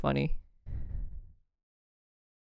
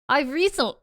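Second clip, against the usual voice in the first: higher-pitched false start in British accent; British accent attempt; 7 semitones higher than usual. Shown as a demonstration. Streamer testing the accent app, attempting British accent. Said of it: "let me try British".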